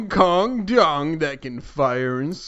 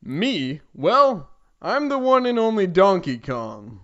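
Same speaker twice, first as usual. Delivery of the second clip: proud; 3 semitones higher than usual. Acted. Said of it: "the ape said proudly".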